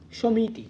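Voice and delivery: সমিতি as "shomiti", rounded first vowel; correct pronunciation demo. Shown as a demonstration. Teacher repeating how we pronounce it, সমিতি as "shomiti". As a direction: say সমিতি joined up as an everyday word. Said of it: "এইভাবে উচ্চারণটা করি".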